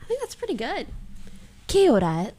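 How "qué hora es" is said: "¿Qué hora es?" dipping, then rising on es; imitated questioning tune. Real, not acted. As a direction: copy the teacher's tune on "¿Qué hora es?", lifting at "es". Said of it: "Why are you saying it like that?".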